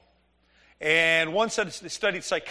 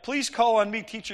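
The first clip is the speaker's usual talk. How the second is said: eager pupil; 4 semitones higher than usual. Retold or imitated. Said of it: "You ever have a kid in your class".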